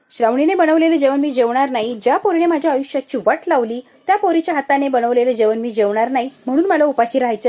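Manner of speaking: sulky daughter-in-law loudly refusing to eat her food; angry refusal. Retold or imitated. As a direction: spit out a stubborn refusal. Sanika refuses food in anger.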